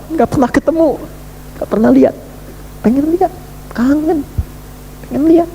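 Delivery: high, aching longing; yearning. Acted. Preacher voices the soul's longing to see God, high and aching. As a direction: let the voice ache with yearning.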